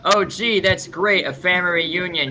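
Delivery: a hint of sarcastic sweetness. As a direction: fake delight at a family reunion. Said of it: "Friend a little too, too hard on that note".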